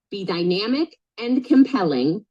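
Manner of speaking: slow, deliberate delivery; slowed-down coaching delivery. Shown as a demonstration. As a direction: space each word out for emphasis. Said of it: "I'm gonna say these a little slower".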